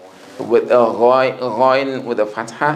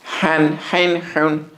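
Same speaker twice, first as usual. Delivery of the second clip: ha said higher, breathy from mid throat; high pitched ha; 4 semitones higher than usual. Shown as a demonstration. Teacher shows the high-pitched ha to the class. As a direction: lift the pitch on every ha. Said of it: "the ha is high pitched".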